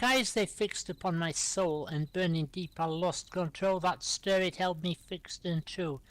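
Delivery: rhythmic verse, each line falling away at its end; poem recital. Acted. Host shares a love poem with listeners, poem recital. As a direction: recite in even, measured couplets. Reads own poem aloud.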